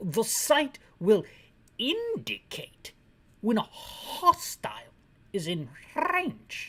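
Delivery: very slow put-on British accent, rolled R's. Trying out how the lines would be said in Britain; attempted British accent, rolled R's. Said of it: "I rolled my R's".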